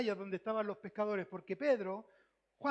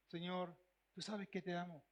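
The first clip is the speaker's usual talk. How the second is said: softer, lower and humble; humble soft answer; 4 semitones lower, 8 dB quieter than usual. Acted. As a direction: answer like a man ashamed. Peter answers Jesus humbly. (respuesta humilde, más suave y grave)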